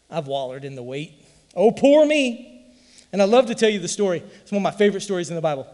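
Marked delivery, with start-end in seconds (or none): 1.5-2.5 higher whiny poor-me voice; milk the pity, mockingly; mock self-pity. Preacher mocking his own wallowing, higher and whiny.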